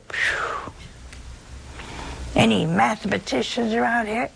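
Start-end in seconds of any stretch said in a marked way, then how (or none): 0.1-0.7 soft unvoiced exhale of amazement; whistling out breath in mock awe; breathy phew. Real, not acted. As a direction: blow out air at the size of it. Reacting to huge number.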